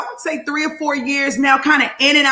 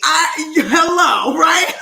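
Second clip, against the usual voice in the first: laughing; 3 semitones higher, 3 dB louder, much slower than usual. Real, not acted. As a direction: crack up mid-line. Laughs while joking.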